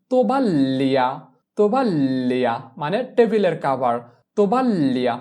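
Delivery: তোবাল্লিয়া with the l doubled; Italian tovaglia. Shown as a demonstration. Teacher models তোবাল্লিয়া to students, clearly. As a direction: lean on the ll of তোবাল্লিয়া. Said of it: "তাহলে কি বসাতে হবে".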